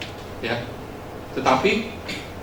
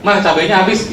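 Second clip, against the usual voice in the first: higher, louder mock call to mum; retold call home to mum, pitched up; child calling to mum; 7 semitones higher, 5 dB louder than usual. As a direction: imitate a kid announcing a cover story. Child calling out a cover story to mum.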